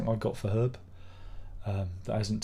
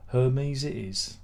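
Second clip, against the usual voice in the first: slow resigned repeat; much slower than usual. Real, not acted. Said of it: "Hermes it is then".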